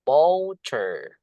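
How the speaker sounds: MOTOR drawn out, "MOH-ter"; model pronunciation. Shown as a demonstration. Teacher showing how it is read, MOTOR drawn out. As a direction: lengthen the first vowel of MOTOR. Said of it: "Ini, guys, bacanya".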